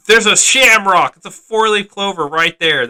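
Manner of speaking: loud, high excited pointing out. Real, not acted. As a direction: show off the shamrock with a burst of excitement.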